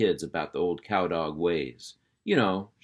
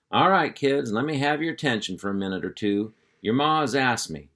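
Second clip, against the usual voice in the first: louder, higher, taking charge; hearty uncle voice; 4 semitones higher, 4 dB louder than usual. Acted. Uncle Hank calling the puppies to attention, hearty and loud. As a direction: round up the kids like a ranch boss.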